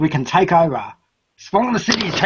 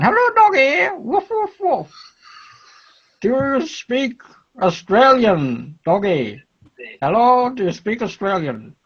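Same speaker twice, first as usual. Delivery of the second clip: high cooing pet voice; baby talk to dog; 5 semitones higher than usual. Acted. Talking to a dog.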